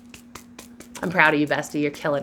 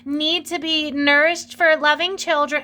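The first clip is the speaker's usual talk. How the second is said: hoity-toity mock; 7 semitones higher than usual. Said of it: "seen as just this hoity-toity".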